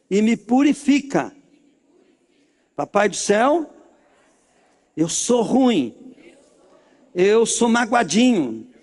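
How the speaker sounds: measured prayer phrases with pauses to repeat; led prayer. Acted. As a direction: lead the congregation phrase by phrase. Leads congregation in repeat-after-me prayer.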